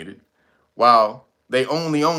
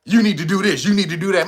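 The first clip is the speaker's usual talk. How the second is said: mock chastising; 3 semitones higher than usual. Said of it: "chastising somebody".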